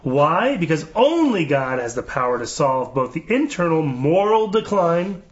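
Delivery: slow, measured scripture-style reading; solemn read-aloud. Acted. Host reads governor's prayer website to co-hosts, slow proclamation.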